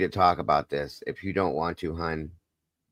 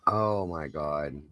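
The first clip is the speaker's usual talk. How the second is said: soft, slow, stunned murmur; hushed disbelief; 6 dB quieter, much slower than usual. Real, not acted. Reacting to a horrifying story.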